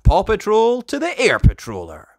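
rally the team; heroic rallying call. Acted. Ryder calls the pups to action, bold and heroic. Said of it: "he tells Mister Porter".

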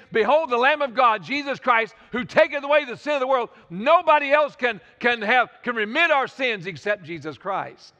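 rising sermon climax that settles on the last words; fervent preaching. Real, not acted. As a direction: preach it out with conviction. Preacher proclaims the gospel climax.

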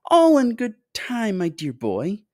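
high, fluty, smiling reply; indulgent, piping host; smiling reassurance. A narrator's reading. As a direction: put the boy off cheerfully in a high voice. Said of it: "smiling at Augustus".

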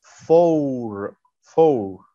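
"four" with a long o; modelled word. Shown as a demonstration. Teacher repeats "four" for pupils to copy. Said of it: "في النص بتبقى أو يو".

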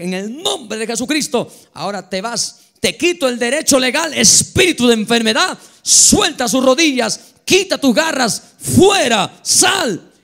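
reprende al espíritu, fuerte y cada vez más alto; reprensión a gritos. Acted. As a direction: expulsa la enfermedad con autoridad creciente. (el pastor al espíritu de enfermedad, reprensión a gritos)

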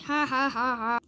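soft, evenly spaced fake chuckle; a light put-on "ha ha ha"; acted laugh. Three little boys laughing at Henry's rescue, pretend laugh. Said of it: "Laughed the three little boys".

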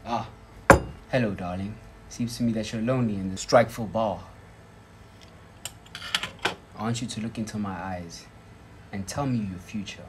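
low soft seductive spy voice; breathy vintage purr. Pretend. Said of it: "let me do it right".

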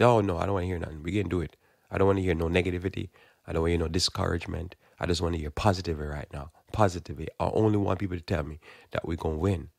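fast, brash rattle of a fool; foolish person. Retold or imitated. Foolish leader brushes off warnings, fast and brash. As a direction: rush it like a know-it-all. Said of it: "But a foolish person could say".

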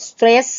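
"stress" said crisply through to the last S; final S sounded. Shown as a demonstration. Teacher repeating the example for students, "stress" with a clear final S. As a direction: pronounce the ending S of "stress". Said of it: "เราก็ต้องออกเสียง".

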